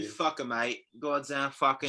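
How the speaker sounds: badly faked London accent; bad British accent. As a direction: put on a clumsy British accent. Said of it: "I'm so bad at my accents".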